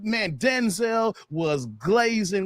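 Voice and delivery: slow, drawn-out excited shout; hyped shouting. Real, not acted. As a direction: call it out like a fan. Hyped shouting about the film.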